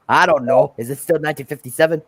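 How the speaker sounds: lightly voiced engine character; puzzled question in a light character voice; Henry. Repeating the stuck engine's reply, light impression. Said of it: "How's my impression of Henry".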